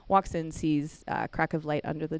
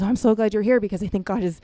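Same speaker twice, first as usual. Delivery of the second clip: surprised; 4 semitones higher, 7 dB louder than usual. Retold or imitated. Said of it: "kinda has this surprised face".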